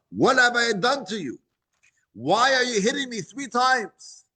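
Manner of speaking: the donkey asks why, hurt; a wronged donkey pleading with its master; talking donkey. Acted.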